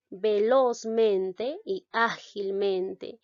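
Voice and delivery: "velozmente y ágilmente" slowed, with stress on LOZ, Á and both MENs; teacherly ve-LOZ-MEN-te, Á-gil-MEN-te; double stress. Shown as a demonstration. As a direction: dictate velozmente y ágilmente slowly, two beats each. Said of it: "la mayor fuerza de voz recae en veloz".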